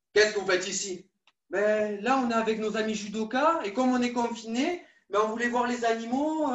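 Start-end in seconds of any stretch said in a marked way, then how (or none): 0.1-1.1 zoo keeper voice. Pretend. Kids sneak in, caught by keeper.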